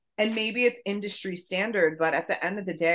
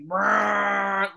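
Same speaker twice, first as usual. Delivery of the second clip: imitated motor rumble; 2 semitones higher, 4 dB louder than usual. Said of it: "like, the motor".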